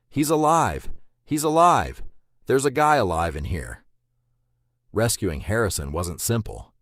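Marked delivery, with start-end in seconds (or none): 0.1-3.8 a stunned diver's high, urgent shout; stunned yell. A narrator's reading. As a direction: yell it out in high, loud astonishment. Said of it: "heard the stunned diver yell".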